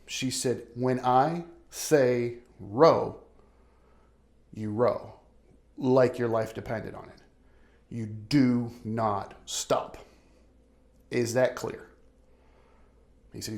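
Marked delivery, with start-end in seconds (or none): 0.8-7.2 stern. Retold or imitated. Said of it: "very stern".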